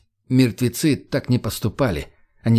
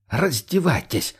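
nervous command; 4 semitones higher, slower than usual. Acted. Armed man commanding.

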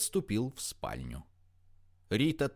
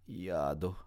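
softer, moaned into a pillow; a stifled moan, softer; muffled moan; 3 semitones lower, 5 dB quieter than usual. A narrator's reading. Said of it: "сдавленно простонала в подушку Рита".

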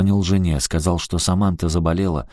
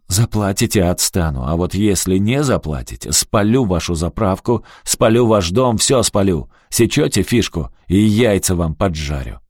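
raised, menacing threats; a thug threatening arson. Acted. Ricky threatens to burn everything.

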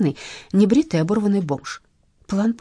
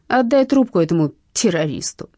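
sharp command; 5 dB louder than usual. Acted. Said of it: "прикрикнула я".

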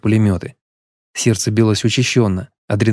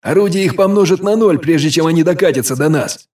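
raised, higher commanding voice; steady the troops with force; firm loud reassurance; 7 semitones higher than usual. A narrator's reading. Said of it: "рявкнул Броган". (громкий уверенный приказ)

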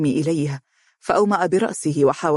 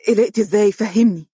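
worried demand; 5 semitones higher, 3 dB louder than usual. A narrator's reading. عمرو يسأل بقلق.

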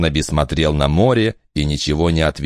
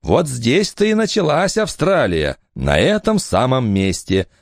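higher, lively woman's voice; mother's voice; 9 semitones higher than usual. Acted. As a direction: speak up bright as the mother. Eleanor speaks to Barnaby.

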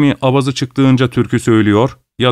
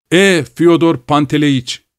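higher, slow sly devil's greeting; 5 semitones higher, slower than usual. A narrator's reading. Blue-spectacled devil greets Fyodor, higher and slow. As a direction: savour his name like a tempter.

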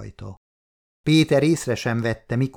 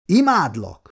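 louder, higher call across the flat; called after her; 6 semitones higher, 4 dB louder than usual. A narrator's reading. Husband calls after his wife heading to shower, raised voice. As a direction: shout it after her as she leaves. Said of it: "kiáltotta utána Péter".

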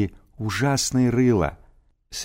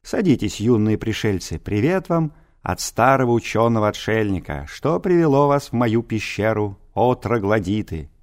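pompous senator oratory. Acted. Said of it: "тем же напыщенным тоном".

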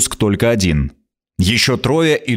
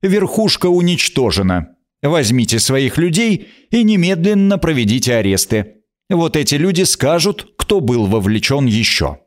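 stern, higher queen giving orders; harsh; 4 semitones higher than usual. Acted. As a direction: command firmly. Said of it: "произнесла она жёстко".

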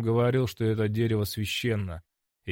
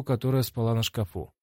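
ordinary delivery, nothing marked

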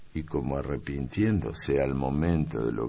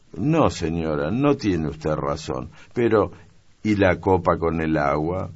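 put-on young maid protesting; 3 semitones higher, 6 dB louder than usual. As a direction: insist she is right. Maid protests her innocence. (criada protestando, voz aguda)

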